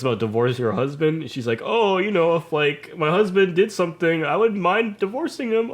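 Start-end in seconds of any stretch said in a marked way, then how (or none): 1.6-5.7 high-pitched airy joking teacher imitation; mimicked professor. Professor joking to class about husband, high-pitched mimicry.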